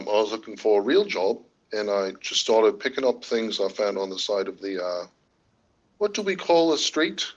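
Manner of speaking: put-on British accent, lilting upward; amateur British accent, pitch swinging up. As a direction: answer as a mock Brit. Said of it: "you've happily come in and done British".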